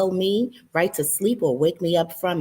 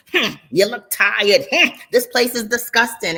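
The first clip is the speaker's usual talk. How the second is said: grunting complaint; 3 semitones higher, 4 dB louder than usual. Retold or imitated. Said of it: "grunting and complaining".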